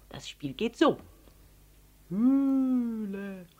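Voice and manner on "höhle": lang gezogenes, hohles Brummen. A narrator's reading. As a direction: das Wort wie in einer Höhle brummen. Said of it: "brummte Paul mit tiefer Stimme". (gedehnt gebrummt)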